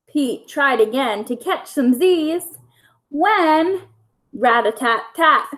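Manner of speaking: lively bedtime story reading; reading to children. A narrator's reading. Teacher reading a bedtime story to her pupils, lively storytelling. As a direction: read it like a picture book for little kids. Reads picture book aloud to kids.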